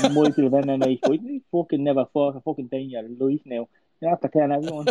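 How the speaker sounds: put-on cocky Irish accent trash talk; Conor McGregor voice. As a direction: snarl it in a brash Irish accent. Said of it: "great impression".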